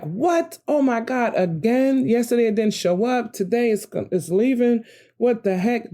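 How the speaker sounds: high, incredulous what-the-heck; outraged disbelief. Retold or imitated. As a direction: throw up your hands as he drives off.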